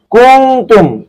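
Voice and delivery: কুনতুম with the ন hidden in the nose, slow; nasal ikhfa. Shown as a demonstration. Teacher shows Quran readers hidden nasal ikhfa slowly. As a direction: hum the ন of কুনতুম through the nose, drawn out. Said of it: "নাকের ভিতর লুকিয়ে ইকফা করে".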